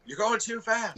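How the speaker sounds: mock high nag from the passenger seat; imitating passenger. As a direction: mimic the passenger telling him off. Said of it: "that's always a conversation in my car".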